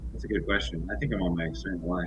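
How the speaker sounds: distorted, far-off built-in mic sound; bitcrushed, crackly audio; crunchy mic. Real, not acted. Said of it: "You sound a little crunchy".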